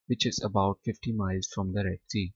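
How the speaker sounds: very slow, each English word set apart for students; slow dictation reading. Shown as a demonstration. Teacher to students, slow careful reading aloud. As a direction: read Arabia is a land of charm and beauty slowly for the class. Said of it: "teacher reads English text slowly".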